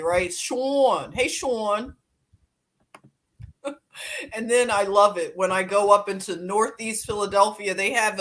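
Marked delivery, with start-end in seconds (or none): 0.3-1.9 "Sean" and "Hey, Sean" in an open Philly aw; Philly accent. Shown as a demonstration. Repeating the Philly greeting to a viewer, lightly. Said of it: "that's how we say it in Philly".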